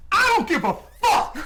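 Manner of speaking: high, loud defiant yell; worker's yell. Retold or imitated. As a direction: fire back at the boss in a high, loud yell. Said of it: "the guy looks at him and goes".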